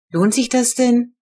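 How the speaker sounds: slow, exasperated question; annoyed. A narrator's reading. Mother fed up with the enclosure plan, annoyed question. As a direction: doubt the whole effort, fed up. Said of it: "sagte Mama genervt".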